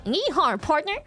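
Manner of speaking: lightly voiced American cowboy twang. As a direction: put on a hint of a Wild West cowboy. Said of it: "was changed into".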